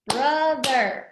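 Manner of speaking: BROTHER in two even beats; syllable by syllable. Shown as a demonstration. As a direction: count out BRO and THER in BROTHER. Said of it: "Two syllables".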